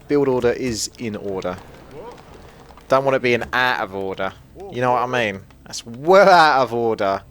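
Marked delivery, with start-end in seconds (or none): 2.9-7.2 hammed-up London accent. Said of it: "Get a bit more of my accent in there".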